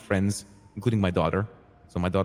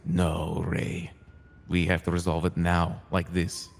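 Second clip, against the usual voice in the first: slow, lower, measured refusal; grim refusal; 4 semitones lower, slower than usual. Retold or imitated. Buddha refusing Ray's plea, grimly firm.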